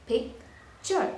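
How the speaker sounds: Picture split in two, pic, pause, chur; syllable by syllable. Shown as a demonstration. Teacher showing two syllables, syllable by syllable. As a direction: break Picture into two separate beats. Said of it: "That's two syllables".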